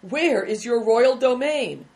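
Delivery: loud, slow, mock-grand question; mocking cry. A narrator's reading. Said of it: "cried another".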